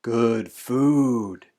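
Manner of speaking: drawn-out, falling cry of delight; excited child. A narrator's reading. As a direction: proudly announce it, long on each word. Child cheers sugary food to father.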